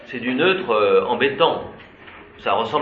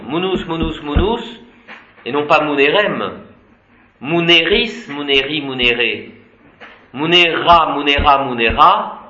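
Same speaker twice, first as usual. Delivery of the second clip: playful sing-song recitation; declining for fun. Shown as a demonstration. Teacher playfully chanting munus for the class, sing-song. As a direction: chant the forms with a light playful lilt. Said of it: "on décline munus pour rire".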